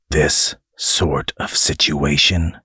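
slow, scornful echo; disdainful. Acted. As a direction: throw the words back with scorn. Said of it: "repeated disdainfully".

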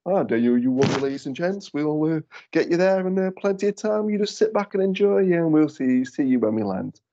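confident game show host pilot; slick, smarmy captain on the tannoy. Retold or imitated. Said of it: "that proper confident pilot's voice. A bit smarmy, a bit game show".

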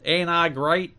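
lightly voiced wrestler catchphrase; a hint of a boasting wrestler; Jeff Jarrett. Host quotes the wrestler's catchphrase, lightly imitated. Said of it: "a, a modest impression of Jeff Jarrett".

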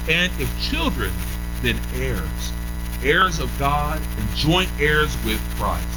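slow, weighty reading of scripture. Acted. Preacher reading Romans to the congregation, slow and weighty. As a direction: lay each phrase down slowly.

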